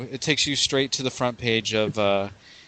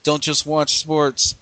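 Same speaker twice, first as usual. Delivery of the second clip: slogan read; slower than usual. Acted. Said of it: "I'm a sports nut".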